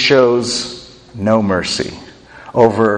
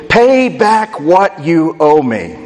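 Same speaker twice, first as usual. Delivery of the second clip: demanding; 5 semitones higher, slower than usual. Acted. Servant grabs his debtor and demands his money back, slow and pressing. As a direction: lean on the debtor word by word. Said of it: "he demanded".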